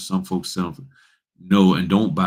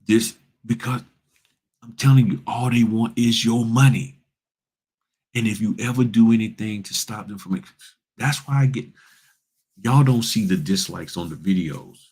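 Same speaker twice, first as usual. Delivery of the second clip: raised pitch, pushing hard on the point; fired-up rant; 3 semitones higher than usual. Real, not acted. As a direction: get heated and preach it higher. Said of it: "But when I talk like this".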